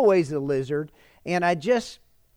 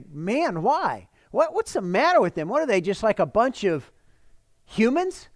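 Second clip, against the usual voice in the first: mock exasperation; 4 semitones higher than usual. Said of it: "And we could say".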